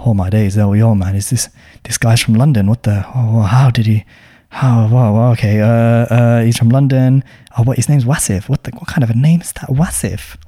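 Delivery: imitating a stranger's exaggerated shock; mock disbelief. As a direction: act out a judgy inner voice, half-joking. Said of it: "I've exaggerated a little bit".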